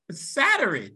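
Saturn said sat-urine, ending in an i-n; Saturn with added in. Shown as a demonstration. Laughing while saying Saturn her own way. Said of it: "you're adding the I N".

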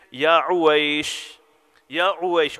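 slow, loving call of a pet name; tender endearment. Retold or imitated. Husband soothing his angry wife, slow and tender. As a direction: coax her gently out of anger. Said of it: "Oh, my beloved Aisha".

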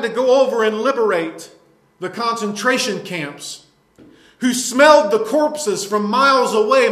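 fired-up pulpit preaching, hard stresses; indignant sermon delivery; forceful preaching. Real, not acted. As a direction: preach it with insistent force, punching key words. Preaches on war and socialism.

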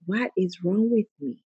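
a quiet demo whisper of "What is wrong with me?"; whispered to yourself. Shown as a demonstration. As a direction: say "What is wrong with me?" under your breath to yourself. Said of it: "if you whisper to yourself".

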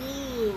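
high, soft, drawn-out ooh; imitated uneasy coo; retold "ooh". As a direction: let out a small high ooh. Retelling own reaction to film.

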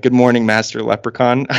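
unbothered butler greeting; deadpan. Retold or imitated. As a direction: say it with zero reaction. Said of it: "deadpan just being like".

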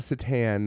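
Satan with stretched "tan" ending; mispronounced Satan. Shown as a demonstration. Host ruling out a wrong pronunciation, stretched Satan.

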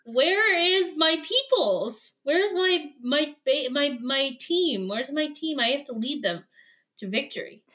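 lightly dramatic leader call. Retold or imitated. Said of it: "And he's like".

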